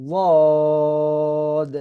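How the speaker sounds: very long, drawn-out "ওয়াদ"; dad held three alifs. Shown as a demonstration. Teacher stretching dad for three alifs, long and heavy. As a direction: hold the vowel of "ওয়াদ" for three counts. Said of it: "ওয়াদকে তিন আলিফ টেনে পড়বো".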